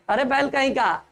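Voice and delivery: ordinary talk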